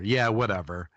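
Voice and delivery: mock-cocky, dismissive brush-off. Medium imitating a client's dead stepfather, cocky. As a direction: toss it off like a cocky know-it-all. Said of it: "would talk like that, really cocky".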